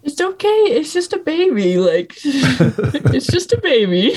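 high, cooing voice through laughter; mock soothing, laughing. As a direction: coo over him like a baby, giggling. Mock soothing about the resident.

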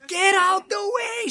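put-on high, loud, stretched-out accented yell; shepherd's scream. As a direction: scream it like an irate shepherd, imitating his accent. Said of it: "Screaming at me".

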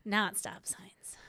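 under-breath correction; whispered aside. Real, not acted. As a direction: mutter it to yourself, unvoiced. Whispered aside after teasing.

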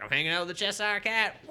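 loud high woo. Retold or imitated. Lovecraft rampaging through Wonderland, whooping loud. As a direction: cheer it like a party animal. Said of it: "He's like".

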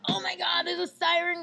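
high, alarmed gasp of surprise; panicked exclaim. Retold or imitated. Retelling friends panicking at West Point, high alarmed cry. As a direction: squeal it like the siren just hit. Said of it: "And we're like".

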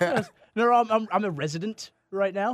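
high, flustered protest; still laughing. Real, not acted. Guest still laughing while explaining he's a resident, high. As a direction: keep the squeak going as you explain.

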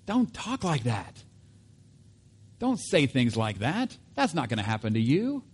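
Peter protesting. Acted. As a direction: refuse to hear such talk. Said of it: "Peter's response was".

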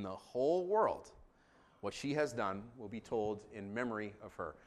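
measured, formal Bible reading; scripture reading. Real, not acted. Pastor reading Mark fourteen to congregation, scripture reading. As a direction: read the narrative out phrase by phrase.

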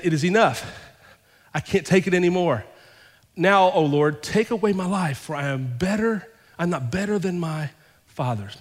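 proclaiming the verse to the congregation; scripture reading. Acted. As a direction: read it out like the prophet's lament. Reads Elijah's lament aloud.

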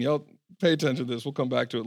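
normal talking voice

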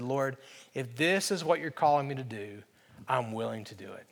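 low, soft submission; surrendered prayer. Retold or imitated. Man finally surrenders to God's call, low quiet acceptance. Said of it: "I surrendered and said".

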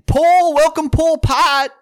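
loud, high, slow hammed-up welcome; comic introducing a friend with the wrong name; mock announcer intro. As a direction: boom it out like a cheesy emcee. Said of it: "came up and I said".

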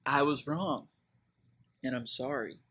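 a reluctant apology trailing off; mild hesitant admission; hesitant, fading confession. Retold or imitated. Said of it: "you just struggle to ever say".

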